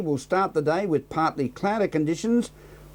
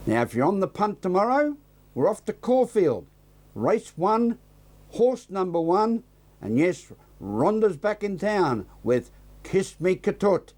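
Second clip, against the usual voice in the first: higher, slower, playful tipster voice; upbeat tip; 4 semitones higher than usual. Real, not acted. Presenter tipping a Caulfield horse to viewers, playful upbeat. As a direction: sell the tip with a grin.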